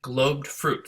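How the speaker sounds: "Globed fruit" with both words hit hard; stress on globed fruit. Shown as a demonstration. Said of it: "that's where the stress is in that line".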